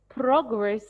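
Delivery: "Progress" as PROG-ress; noun stress. Shown as a demonstration. Teacher introducing the word as a noun, stress on first syllable. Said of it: "they are pronounced differently".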